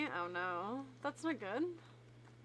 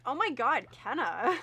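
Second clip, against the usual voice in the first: mocking imitation; 4 dB louder than usual. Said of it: "You went".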